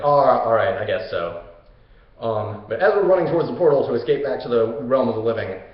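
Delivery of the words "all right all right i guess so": grudging acceptance, sinking low; Hercules. Retold or imitated. Hercules told by the gods to leave the friend, grudging. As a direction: give in reluctantly, dropping away at the end. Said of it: "Hercules is like".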